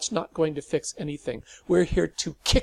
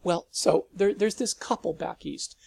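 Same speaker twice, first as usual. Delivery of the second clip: nervous eager rambling; 5 semitones higher, 7 dB louder than usual. Acted.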